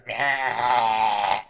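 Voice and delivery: soft, lightly voiced meow; a small floating eye meows softly; mini beholder meowing. Little gazers meowing while they watch the cooks, soft.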